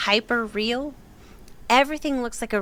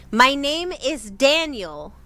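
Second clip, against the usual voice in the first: slow, raised, firm restating of "Daniel"; insistent repeat; 4 semitones higher, slower than usual. Acted. Narrator insisting to the thing at the door, slow and insistent. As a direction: spell out "My name is Daniel" slowly, pitch lifted. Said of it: "I said again".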